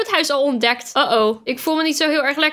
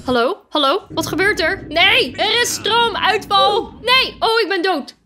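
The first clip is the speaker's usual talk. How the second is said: mock panic; 6 semitones higher than usual. Poisoned character cries out as the lights die, hammed-up panic. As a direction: play the dying partygoer in mock alarm. Voices dying game character.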